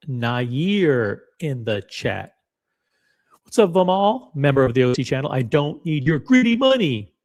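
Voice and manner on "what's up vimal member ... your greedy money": higher, louder intern put-on; mock greedy intern voice. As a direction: play the bitter unpaid intern. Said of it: "said the intern who got a zero bonus".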